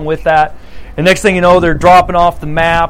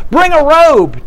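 higher, quicker mock call; a lighter repeat of the father's order; father's command; 7 semitones higher, 3 dB louder, slower than usual. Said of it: "And the father says".

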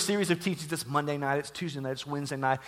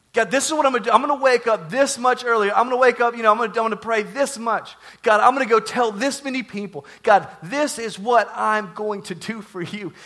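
loud, higher, eager declarations to God; fervent vowing; 4 semitones higher, 5 dB louder than usual. Acted. Zealous camper promising God more and more, fervent. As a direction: pile up promises with mounting zeal, then stretch the last.

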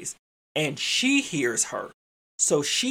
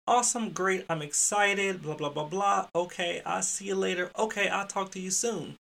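higher-pitched, breezy sign-off; polite farewell patter; 4 semitones higher than usual. Retold or imitated. Educator saying goodbye to a visitor at the door, breezy. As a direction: skim through the pleasantries lightly.

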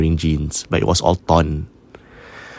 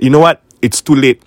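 higher and louder, exasperated, at the end of her rope; fed-up outburst; 6 semitones higher, 5 dB louder than usual. Retold or imitated. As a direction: burst out tired and fed up. Sister fed up, wants to sleep.

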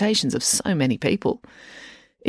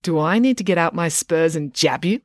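mischievous. Acted. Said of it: "mischievous twinkle in her eye".

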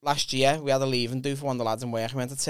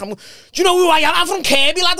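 much higher, louder, fast screech; mock furious woman; 10 dB louder than usual. Angry woman confronting the comic, shrieking fast. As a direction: screech it like she's kicking off. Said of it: "she was like".

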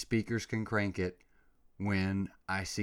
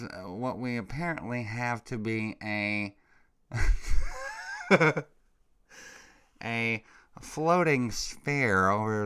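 lightly voiced calm official, broken by laughs; a hint of a solemn expert presenter; mock calm official; 2 semitones higher, 4 dB louder, slower than usual. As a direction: parody a slow, deadpan government briefing. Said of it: "Calmly swamping through dozens of U F O videos".

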